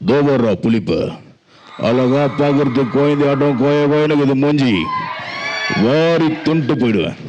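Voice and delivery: movie villain voice. Retold or imitated. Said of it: "villain character".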